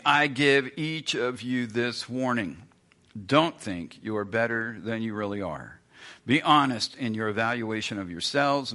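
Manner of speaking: measured reading of the verse; scripture reading. Acted. Preacher reading Romans twelve to the congregation, solemn reading. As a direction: read the verse with weight.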